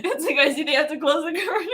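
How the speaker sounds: talking through real laughter; words spilling out between laughs; laughing. Real, not acted.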